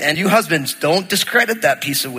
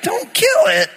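1 mock high echo; slower than usual. Husband echoing wife in disbelief.

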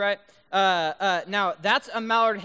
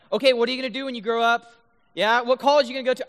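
rapid-fire, slightly louder quizzing; mock nosy questioning; 4 semitones higher, 5 dB louder, faster than usual. Adult asking high schoolers about their future, mock nosy questioning. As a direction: lightly mimic a pestering adult.

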